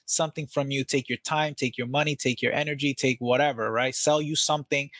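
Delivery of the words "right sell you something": ordinary talk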